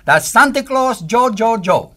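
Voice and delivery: Pedro's excited call about Santa. Retold or imitated. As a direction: point and call out to a friend in delight. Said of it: "like, in Christmas time, you say".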